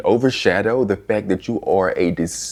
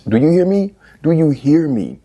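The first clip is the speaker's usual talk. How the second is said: louder, higher demand; emphatic; 5 semitones higher, 3 dB louder than usual. Acted. Insisting to viewers she wanted to fight: loud and emphatic. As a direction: push it at the listener.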